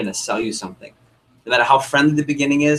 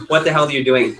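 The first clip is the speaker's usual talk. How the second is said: incredulous; 2 semitones higher, 5 dB louder than usual. Retold or imitated. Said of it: "felt the look".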